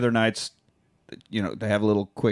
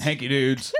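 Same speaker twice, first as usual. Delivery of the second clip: laughing shout. Real, not acted.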